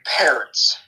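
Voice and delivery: hushed, breathy whisper of a fear. Acted. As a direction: whisper it like a scary secret. Repeats the answer, hushed.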